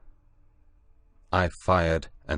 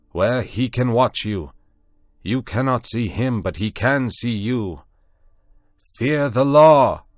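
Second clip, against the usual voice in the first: raised voice; 6 semitones higher, 7 dB louder than usual. A narrator's reading. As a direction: thunder the final warning. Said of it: "lifted up my voice".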